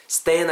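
"stand" with a long, wide steh-en vowel; stretched a gliding in "stand"; spread-lipped vowel. Shown as a demonstration. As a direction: pull the lips sideways through "stand". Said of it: "양옆을 옆으로 좀 째시면서".

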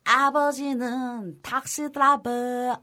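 A singer impression. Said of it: "요즘에 또 자이언티".

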